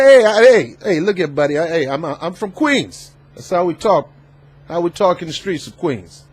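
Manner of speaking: hint of a brash Queens guy; Scaramucci. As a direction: lightly mimic a street-talking New Yorker, opening on loud heys. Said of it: "One thing about Scaramucci".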